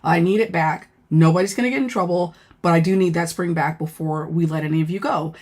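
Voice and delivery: calm appeal with little edge; trying to be nice. Retold or imitated. Officer coaxing inmates to return the spring, trying to be nice. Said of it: "like, trying to be nice".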